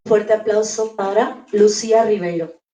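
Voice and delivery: rally the crowd's applause; loud announcer call. Real, not acted. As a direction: call out the name loudly. Host calls for applause. (anuncio en voz alta)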